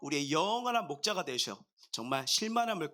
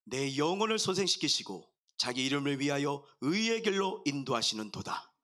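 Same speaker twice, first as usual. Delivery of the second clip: measured, lower-pitched psalm recitation; scripture reading; 4 semitones lower than usual. Acted. Pastor reading Psalm 23 to the congregation, solemn recitation.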